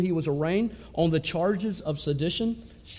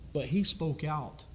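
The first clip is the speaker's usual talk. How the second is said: softer and slow, letting it sink in; quiet reverent echo; 5 dB quieter than usual. Real, not acted. Preacher to his congregation, softly and slowly. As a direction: drop the voice and linger on it. Preacher repeats line for weight.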